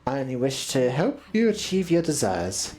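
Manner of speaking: low, measured coaxing voice; condescending schemer. Acted. Schemer offering little Bachai help, low measured coaxing.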